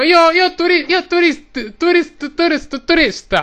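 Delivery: high, halting mock Asian-tourist accent; mock Asian accent, stuttering word by word; mimicked Asian tourist. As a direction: stammer it like an Asian tourist with little Italian. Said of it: "a modo loro se fanno capire, dicono".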